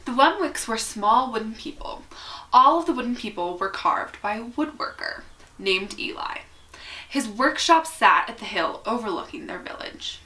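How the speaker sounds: measured picture-book read-aloud with lifted key words; story narration. A narrator's reading. Reader telling children about small wooden people, storybook narration. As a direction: read it expressively, pausing between phrases.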